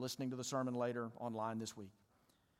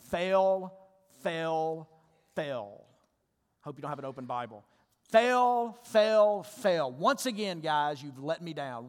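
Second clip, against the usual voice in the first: harsh inner critic; 3 semitones higher, 9 dB louder, slower than usual. Acted. Preacher voices the listeners' self-condemning voice, loud and scathing. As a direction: berate them as a total failure, pounding each phrase. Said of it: "That's your voice".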